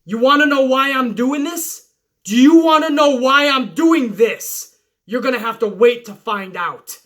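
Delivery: menacing taunt, swelling on the second question; imitating a taunting yell. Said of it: "Orton kept yelling into Jeff Hardy's ear".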